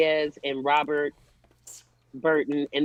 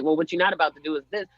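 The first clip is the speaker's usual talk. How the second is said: rapid-fire mock marital argument; fast, everyday scolding quote; out of anchor voice; 2 semitones lower, much faster than usual. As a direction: drop the anchor act, talk fast. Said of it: "drop out of their news anchor voices".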